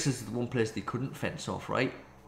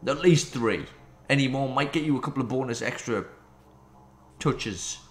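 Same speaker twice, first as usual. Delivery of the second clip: mock advertisement read; 3 semitones higher than usual.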